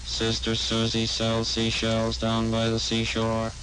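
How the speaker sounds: tongue twister through a vocoder on one low note. Shown as a demonstration. Demonstrator testing a tongue twister, vocoder monotone.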